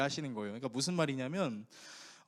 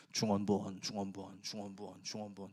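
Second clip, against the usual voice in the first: droning repetition; 9 semitones lower than usual. Shown as a demonstration. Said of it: "중언부언하는 형태로 기도하는 사람들의 특징이".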